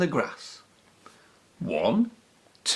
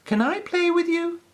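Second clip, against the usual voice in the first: tag. A narrator's reading. Peppy asks the bunnies.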